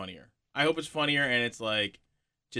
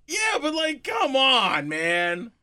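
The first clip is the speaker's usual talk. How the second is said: mouth full; 6 semitones higher than usual. Real, not acted. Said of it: "eating while your mouth is full".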